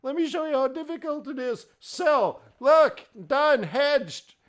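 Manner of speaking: high, loud scoffing showoff; mock disbelief. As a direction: scoff at them, then show how easy it is. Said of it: "I'm like".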